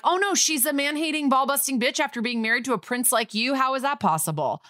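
high-pitched sarcastic sympathy; mock dismay. Host answering the suspect about his ex-wife, sarcastic mock dismay. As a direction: feign shock, dripping with sarcasm.

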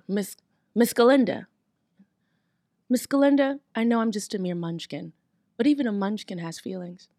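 heartfelt. Acted.

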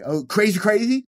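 high, loud, rising exclamation; really high. Shown as a demonstration. Comic demonstrates going high mid-bit, high and loud. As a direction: send it way up high, climbing. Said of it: "I'll go really, really high".

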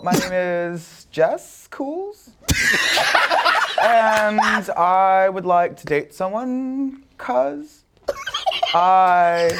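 put-on slow, rising valley girl drawl; every phrase lifts like a question; upspeak. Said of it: "I was trying to nail the upspeak".

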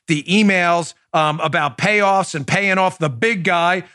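ordinary delivery

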